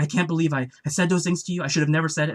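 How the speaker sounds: apologizing fan. Retold or imitated. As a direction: overplay the regret. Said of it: "he's apologizing to the creator".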